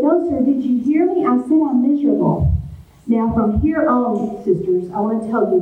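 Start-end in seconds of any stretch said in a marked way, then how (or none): 0.0-2.5 raised, higher mock yell to a deaf old man; half-yelled repeat to be heard; retold yell. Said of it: "So I yelled up and said".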